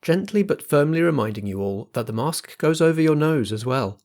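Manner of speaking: camp host voice; gently but firmly, like a compere; theatrical compere. Acted. Compere persona addresses audience.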